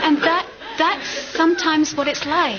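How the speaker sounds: speaking through real laughter; still laughing. Real, not acted.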